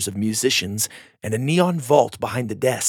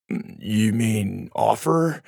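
correcting; much slower than usual. A narrator's reading. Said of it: "Dallas corrected".

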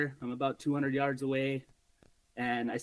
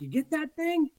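calling out; 13 semitones higher than usual. Retold or imitated. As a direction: call out from a distance. Bow hunter calls from his tree.

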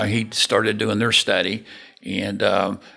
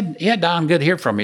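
pitched-up, hearty phone greeting; retold upbeat hello; friendly greeting; 8 semitones higher, 3 dB louder, faster than usual. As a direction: greet an old contact, voice lifted high. Acted greeting to a caller.

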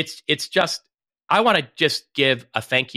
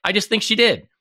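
mock clueless accuser; 8 semitones higher, 4 dB louder, faster than usual. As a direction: pitch rising to a high whine. Hypothetical unsure accuser.

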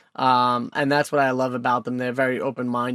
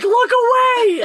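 high squeaky wife voice; 6 dB louder, slower than usual. Retold or imitated. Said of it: "she's like".

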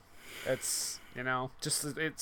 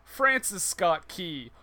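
mocking rising scorn; 3 semitones higher, 4 dB louder than usual. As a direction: taunt him, rising to a shout. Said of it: "Ralph says".

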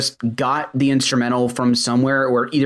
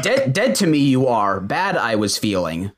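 Yoda-style rhyming. Retold or imitated. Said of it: "you basically turn into Yoda".

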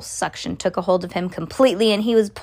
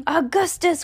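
high, drawn call of a name; crying out; 8 semitones higher than usual. A narrator's reading. Mother cries out to her son, high call. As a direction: call out, pitch well up. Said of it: "cried Missus Gloop".

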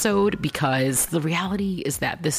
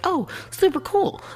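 high, bubbly excited gush; gushing fan voice; 12 semitones higher than usual. Retold or imitated. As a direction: squeal it like an eager fan. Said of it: "I'm like".

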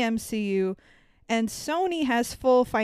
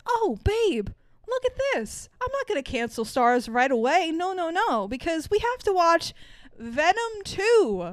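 much higher, pleading imitation of the husband; mock husband voice; 7 semitones higher than usual. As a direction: squeak it out like a begging husband. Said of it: "and says".

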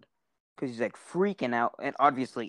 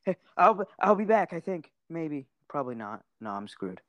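imitated freak-out; 4 semitones higher than usual. Imitating a man fleeing his friend, mock nervous and fading to defeated. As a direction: lose confidence phrase by phrase, as a mock coward. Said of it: "he, like, freaks out".

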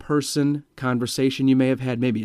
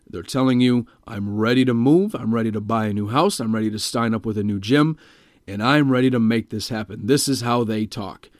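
slightly deepened, firm client voice; imitating a deep-voiced, decisive client; deeper voice; 2 semitones lower than usual. Shown as a demonstration. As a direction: lower it and sound ready to act. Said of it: "has a deeper voice like this".

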